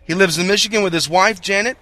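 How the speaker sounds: upbeat announcer read of guest bio; radio host intro. Real, not acted. Host reads formal guest intro.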